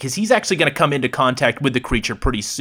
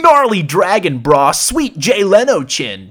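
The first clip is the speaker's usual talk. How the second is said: louder, laid-back surfer dude; mock surfer; 3 semitones higher, 4 dB louder, slower than usual. Turtle compliments Godzilla, as a laid-back mock surfer. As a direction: say it like a chill surfer.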